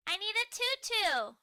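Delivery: put-on high, loud toddler shout; shouted demand. Muffin demanding a tutu, shouting. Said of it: "shouts Muffin".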